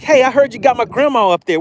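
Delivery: high playful fish voice; voicing the fish. Host voicing the fish asking about its grandma, high and mock indignant. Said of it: "It's like".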